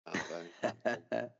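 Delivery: "Arvo" drawn out as ah-vo, a little wary; reluctant arvo. Shown as a demonstration. Friend admitting a word he never uses, saying arvo. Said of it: "I'm not comfortable with that word".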